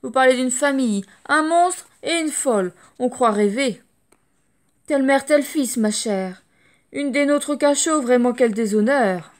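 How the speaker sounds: vituperate like snobby matrons; loud scornful clucking; shrill gossip scorn. Acted. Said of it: "vocifèrent".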